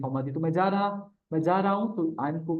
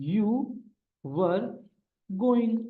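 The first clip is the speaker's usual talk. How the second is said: slow dictation; 4 semitones higher, much slower than usual. Shown as a demonstration. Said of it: "teacher dictates English answer slowly".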